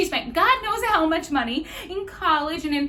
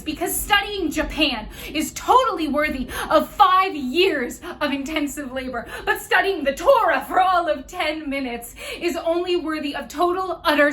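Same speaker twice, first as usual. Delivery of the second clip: loud, heated sarcasm; indignant rant, punching the adjectives; scornful tirade; 5 dB louder than usual. Acted. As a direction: hammer the double standard loudly. Acted tirade about double standard.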